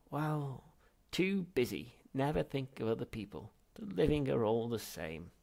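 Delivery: put-on high, loud old man's scolding; scolding ghost. Ancestor berating Zaphod, loud and bitter. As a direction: tut at the young and selfish.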